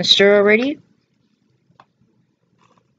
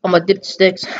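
whispering. Real, not acted. Quiet aside while eating.

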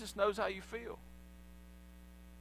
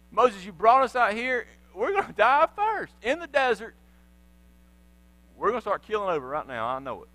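thirsty complaining; 2 semitones higher, 4 dB louder than usual. Acted. Thirsty Israelites blaming Moses, whiny complaint. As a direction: accuse Moses, then mutter doom. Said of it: "they begin to think".

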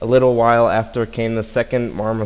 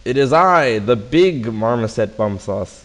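bold boast; 6 dB louder than usual. Acted. Big marmoset boasts.

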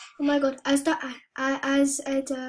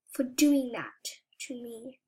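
whispered grudge; 3 semitones lower, 6 dB quieter than usual. Real, not acted. Vowing revenge on Flop.

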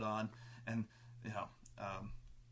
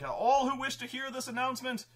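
lightly raised, formal herald voice; crier's proclamation; 11 semitones higher than usual. Retold or imitated. Crier calling the crowd to the wall, higher formal announcement. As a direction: announce it to the whole town, a bit high. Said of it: "He's like".

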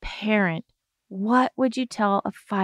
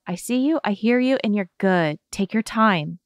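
reassuring. Shown as a demonstration. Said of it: "it's all about".

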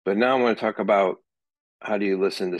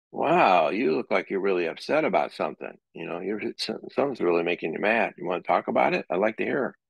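gentle acknowledging. Shown as a demonstration. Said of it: "feed it back to see if maybe it's true".

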